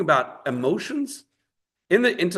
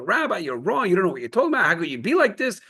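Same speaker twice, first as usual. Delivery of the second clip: mock screaming; 5 semitones higher, faster than usual. Upset butcher protesting the rabbi's ruling, mild mock yell. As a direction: play the upset butcher protesting, half-shouted. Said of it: "he starts screaming".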